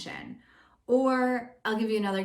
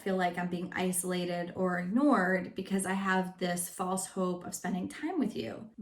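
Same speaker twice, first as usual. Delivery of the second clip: gentle I-statement. Shown as a demonstration. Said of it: "when you shift it over into saying".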